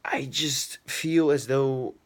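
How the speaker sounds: slow, hushed whisper. Real, not acted. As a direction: drop into a slow whisper, sharing a secret thought. Sudden hushed reflective aside.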